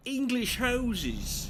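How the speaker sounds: high, drawn-out put-on Welsh lilt; mock Welsh accent. Player admiring roadside houses, in a high mock Welsh accent. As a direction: stretch it out in a fake Welsh accent. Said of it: "Can't do a Welsh accent".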